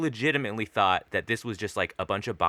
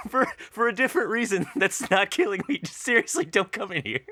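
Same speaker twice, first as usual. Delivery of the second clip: very high mock-desperate plea, breaking into laughter; squeaky improv warning through laughs; pleading prey animal; 12 semitones higher than usual. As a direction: beg like a tiny trapped animal. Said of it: "the mouse or the chicken is like".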